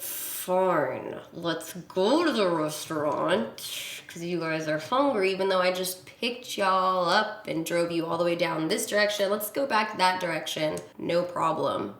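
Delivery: slow, grudging "fine" with sarcasm underneath; resigned fake agreement. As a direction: go along while hiding annoyance. Her resigned reply to them.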